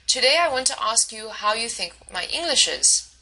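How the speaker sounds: "Today I want to ask you how you think my English is" read as a statement, pitch falling at the end; falling intonation. Shown as a demonstration. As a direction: read it like a plain statement, voice dropping on "is". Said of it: "I just read that with a falling intonation".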